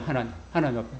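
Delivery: normal talking voice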